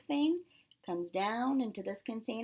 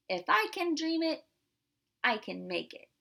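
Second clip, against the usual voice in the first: Maxine's motto; 6 semitones higher, 3 dB louder than usual. Acted. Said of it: "she says".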